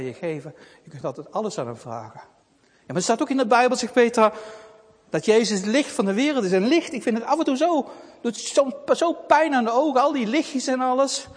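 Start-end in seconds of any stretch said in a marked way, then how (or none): 2.6-11.3 put-on young girl Petra. Child Petra voiced by storyteller.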